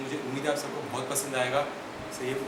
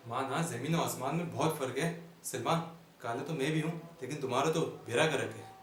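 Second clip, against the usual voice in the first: theatrical comic recitation with dramatic pauses; comic stage monologue. Acted. Comedian addressing ladies and gentlemen about his life, mock-grand monologue. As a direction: declaim it like a mock-grand orator.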